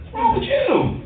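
very high-pitched mock bewilderment; baffled reply. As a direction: squeak it out as the baffled other caller. Baffled reply to the angry caller.

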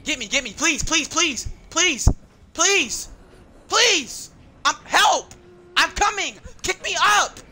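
desperate pleading. Real, not acted. Begging teammates for rescue.

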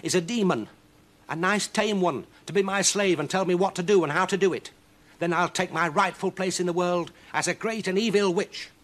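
high, loud cranky witch. Acted. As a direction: play the witch muttering her plan. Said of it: "she told herself one day".

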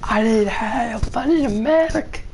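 high calling-out shout for a medic; man down shout. Real, not acted. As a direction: yell for help while downed. Downed in game, calling for help.

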